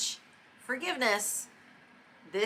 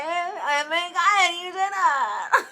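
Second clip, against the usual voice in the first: much higher and louder, slow, half laughing; excited cheer; 11 semitones higher, 9 dB louder, much slower than usual. Acted. Congratulating listeners who took accountability, a shrieking excited cheer. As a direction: cheer them on, ecstatic.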